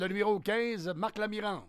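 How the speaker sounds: stadium announcer. Retold or imitated. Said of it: "j'étais annonceur au stade de baseball".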